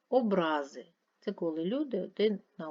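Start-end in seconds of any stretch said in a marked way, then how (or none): 0.1-0.9 Образи with a stretched middle -ра-; stress on second syllable. Shown as a demonstration. Teacher explaining offences between people, second-syllable stress on Образи. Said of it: "мають різний наголос".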